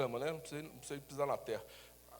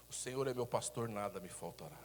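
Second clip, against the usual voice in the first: calm faith; 7 semitones lower, 5 dB quieter than usual. Shown as a demonstration. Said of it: "fala assim".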